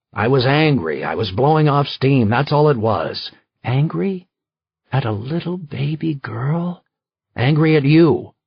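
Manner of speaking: husband and wife snapping, loud; heated quarrel. Acted. Spouses arguing over his anger, loud. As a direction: throw the word angry back at him.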